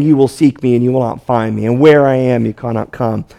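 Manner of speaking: a hint of a sneering imitation of Jesus; mocking mimicry. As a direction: parrot the words back to mock them. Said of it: "they mimic Jesus".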